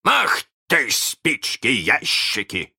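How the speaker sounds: loud, drawn-out curse; imitating Hook's voice. A narrator's reading. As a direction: swear as the pirate captain would. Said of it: "его же голосом".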